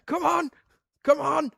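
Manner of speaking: high, hurried mock urging; Fast Show family impression. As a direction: chivvy like the running family sketch. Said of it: "like in the Fast Show with that family".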